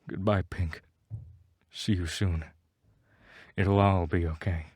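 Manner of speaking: gently soothing, a little hushed; soft reassuring whisper. Acted. A hushed, reassuring goodbye to Pink on screen. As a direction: say goodbye tenderly, like comforting someone. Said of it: "I whisper in a soft, reassuring voice".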